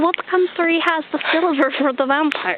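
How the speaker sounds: put-on hammy Russian accent, questioning lift; fake Russian accent. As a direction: ask it like a cartoon Russian. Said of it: "talking in a fake, funny Russian accent".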